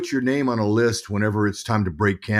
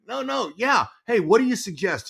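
flustered retelling; 10 semitones higher than usual. Retold or imitated. Flustered reply to manager.

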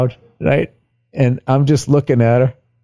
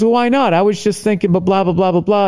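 a higher, lightly imitated wife; lightly voiced wife; 5 semitones higher than usual. Wife pushing back on his refusal, lightly imitated. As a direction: retell her objection in a slightly raised voice. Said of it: "And she goes".

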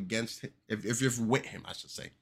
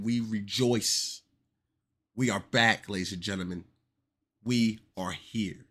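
hyped announcement; 4 dB louder than usual. Acted. Hype for Marvel.

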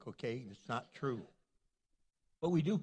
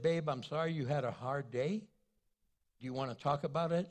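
gentle to wife; 5 semitones lower than usual. Retold or imitated.

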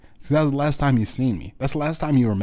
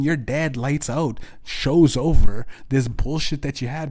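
ordinary talk

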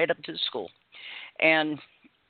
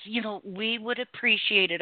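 slightly higher, lightly put-on teacher voice; a hint of a prim teacher; mimicked teacher; 5 semitones higher than usual. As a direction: lightly imitate a teacher's polite reproof. Mimics teacher scolding a grandmother.

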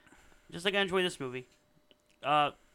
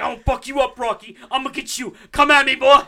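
dopey cartoon bellow; 7 semitones higher, 9 dB louder than usual. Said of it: "a big dumb brute going like".

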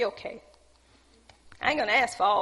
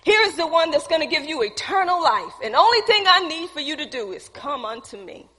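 high, raised proclamation; raised preacher's voice, pitched high; crying out; 4 semitones higher, 3 dB louder than usual. Acted. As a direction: announce it boldly to the whole crowd. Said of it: "He cried out".

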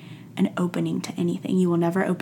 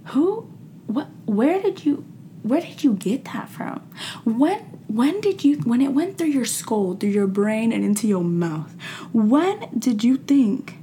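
high, stammering disbelief; mock stunned disbelief; 4 semitones higher than usual. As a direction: sputter like someone just insulted you. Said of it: "I'm just like".

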